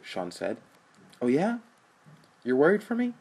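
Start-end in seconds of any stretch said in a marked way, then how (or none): 1.2-3.1 high, loud mocking disbelief; scornful sneer at his brother's concern; sarcastic scoff. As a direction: throw his worry back at him, much higher. Rich mocks Sean's concern.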